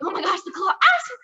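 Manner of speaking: high-pitched pretend cry for help; mock panic. Daughter re-enacting dad's claw game, mock panic.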